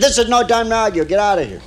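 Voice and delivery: high-pitched panicked wife, acted; mock panic. Wife to lover as husband knocks, mock panic. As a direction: hurry the lover out in mock alarm.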